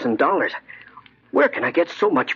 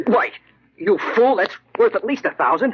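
indignant outburst; 6 semitones higher than usual. Acted. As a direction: flare up at the insult to the price. Haggling over the ruby pin.

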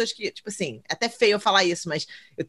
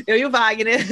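laughing. Retold or imitated. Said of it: "Agora eu tenho que falar".

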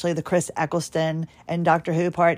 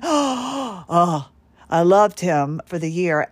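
excited gasp; slower than usual. Real, not acted. Gushing over Chris Eccleston.

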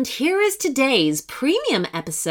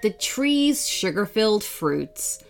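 put-on children's story narration. A narrator's reading. Narrator leads children to a fairy door, storytelling. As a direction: lead young listeners into a magical tale.

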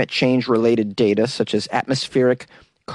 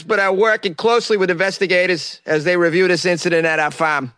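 put-on Boston accent; 5 semitones higher than usual. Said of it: "I got to squeeze in a Boston accent there".

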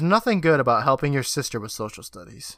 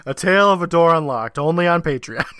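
louder, higher hyped ad plug; clickbait video narrator; 3 semitones higher, 5 dB louder than usual. Pretend. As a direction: pitch it like a paid promo. Ad plug parody.

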